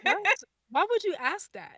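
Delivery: high, loud laughing protest; laughing disbelief. Real, not acted. Guest laughing at the host's hard question, high and loud. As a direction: toss the question back in mock outrage. Host asked to rank shows.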